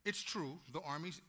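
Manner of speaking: confident, prideful Saul boasting to Samuel. Acted. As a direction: puff up like a proud king. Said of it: "he's confidently prideful".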